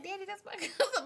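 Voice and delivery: high, giggling excuse to daddy; laughing plea. Retold or imitated. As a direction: laugh through the excuse to her father. Pleading to dad, laughing.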